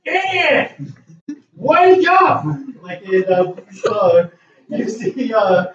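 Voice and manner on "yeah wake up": high yell to wake her; screaming. Acted. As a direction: shout in her face to wake her. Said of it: "screaming in your face".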